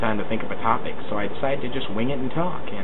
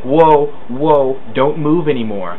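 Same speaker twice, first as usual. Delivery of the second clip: higher, louder cartoon voice for the foot; hammed-up foot yelling stop; talking foot; 6 semitones higher, 6 dB louder, slower than usual. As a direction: make the foot shout a warning. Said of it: "my foot's like".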